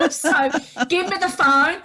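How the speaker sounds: retold urgent shout. Injured, demanding the phone.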